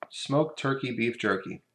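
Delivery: "Smoked turkey beef jerky" said slowly, each word spelled out; slow careful. Shown as a demonstration. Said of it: "Say that ten times fast".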